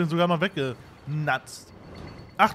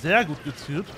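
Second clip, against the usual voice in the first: ironic praise; 4 semitones lower than usual. Real, not acted. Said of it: "Damit ist es ironisch gemeint".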